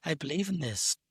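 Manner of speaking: earnest filmmaker musing, dragging slowly; lightly mock the director as he solemnly declares his beliefs; Neil Breen voice. Podcaster imitating director Neil Breen, slow mock-solemn voice. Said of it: "I can imagine Neil saying it in that Neil voice".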